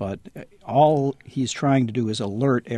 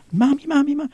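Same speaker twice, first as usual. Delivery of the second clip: put-on much higher, insistent kid's wail; mock kid calling mommy, louder; imitating a little kid; 4 dB louder, faster than usual. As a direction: pester mom like an impatient child. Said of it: "the little kid who goes".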